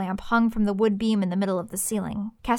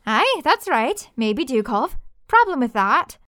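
gruff hunter; 3 semitones higher, 3 dB louder, slower than usual. Acted.

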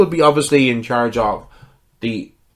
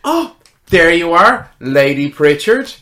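high, loud delighted greeting; excited, raised-pitch hello; excited friend; 4 semitones higher, 5 dB louder than usual. Acted. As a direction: burst in excited to see a dear friend. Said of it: "you hear the excited voice".

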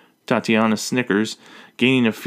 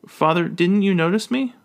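worried; 8 semitones higher than usual. A narrator's reading. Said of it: "Elizabeth asks worriedly".

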